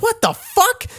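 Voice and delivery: very high-pitched, alarmed exclamation; imitated panic. Teacher losing her mind on the plane, imitated panic. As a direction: squeal it in mock disbelief. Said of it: "fucking loses her mind".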